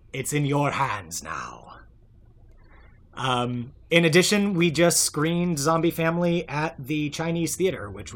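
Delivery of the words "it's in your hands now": slow dramatic whisper. Acted. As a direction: lean in and whisper it slowly. Dramatic aside to listeners.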